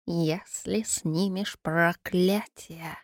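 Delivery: slow, soft bubbling creature whisper; gurgling whisper. Acted. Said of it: "прошептал булькающий голос Водяного".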